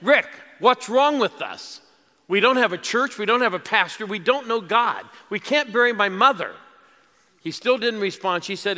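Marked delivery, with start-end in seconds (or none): 0.0-6.5 yelled plea. Retold or imitated. Wife yelling to her husband from the kitchen, loud and pleading. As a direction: cry out to the husband across the room. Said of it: "So she yelled again".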